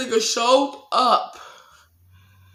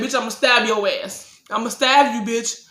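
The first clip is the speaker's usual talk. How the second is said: retold furious threat; 2 semitones higher, 3 dB louder than usual. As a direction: threaten him back at full heat. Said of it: "And I said".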